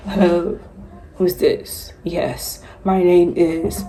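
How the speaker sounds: lightly put-on British CEO phone voice; measured mock-British telephone greeting; fake British accent. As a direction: play a CEO with a hint of faked British. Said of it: "I'm faking a British accent".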